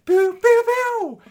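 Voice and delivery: very high, loud playful zaps; mock laser pew. Cohost playfully firing imaginary lasers, high mock zaps. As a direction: fire off cartoon laser noises.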